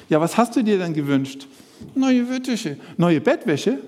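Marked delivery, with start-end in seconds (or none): 1.9-2.8 higher, sulky puppet voice; puppet Willi. Acted. Puppet Willi telling the presenter his wish, sulky and high. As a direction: sulk it out as the little bird.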